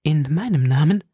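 moved, questioning In meinem Namen with a rise; In meinem Namen asked back with a moved lift; lively emotion. Acted. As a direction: echo his words, touched and surprised. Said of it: "versetzte Madame Bonacieux mit lebhafter Rührung".

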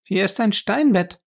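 Fay mocks Lacey about a stone bed, ironic. A narrator's reading. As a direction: say it with a mocking lilt. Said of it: "sagte Fay ironisch".

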